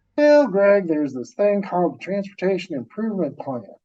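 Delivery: put-on drawl. Retelling the answer he got when he asked where his money was, in a put-on drawl. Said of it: "I'm going to do a little bit of uh, a drawl".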